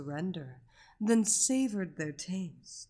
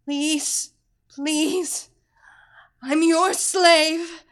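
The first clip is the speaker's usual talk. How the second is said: higher and louder, building frenzy; ecstatic crying out; 5 semitones higher, 11 dB louder, much slower than usual. A narrator's reading. Captive crying out to her mistress, frantic and high. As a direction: lose control, shout it higher.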